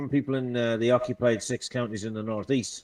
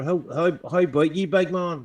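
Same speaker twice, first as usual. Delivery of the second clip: Northern Irish greeting; 4 semitones higher, 4 dB louder than usual. Shown as a demonstration. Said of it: "That's in the north".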